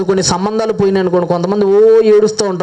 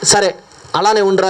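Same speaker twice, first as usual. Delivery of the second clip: angry king; 4 semitones higher, slower than usual. Retold or imitated. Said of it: "రాజుగారికి పిచ్చ కోపం వచ్చేసిందండి".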